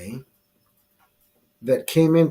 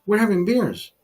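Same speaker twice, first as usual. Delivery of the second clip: higher-pitched, rapid protest; exasperated, pitched-up comeback; indignant self-defence; 5 semitones higher than usual. Retold or imitated. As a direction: argue back, defending yourself in a retold row. Acted argument with angry bystanders.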